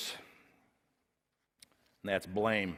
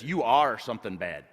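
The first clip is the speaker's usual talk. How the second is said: shame speaking; 5 dB louder than usual. Acted. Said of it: "Shame says this".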